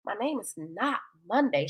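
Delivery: a deadpan put-down to teasing Joe; dry correction. Acted. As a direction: correct him, unimpressed and low. Sunday replies unimpressed.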